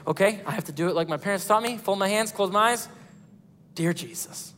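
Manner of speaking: mock dutiful prayer. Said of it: "I'd say".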